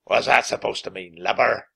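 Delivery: scowling pirate. Acted. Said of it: "Captain Bones scowled".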